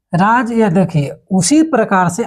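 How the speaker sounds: ordinary talk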